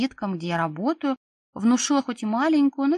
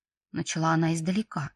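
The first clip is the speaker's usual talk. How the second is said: ordinary delivery, nothing marked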